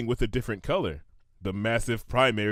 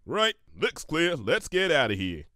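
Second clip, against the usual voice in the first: hurried; 3 semitones higher than usual. Acted. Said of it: "said hurriedly".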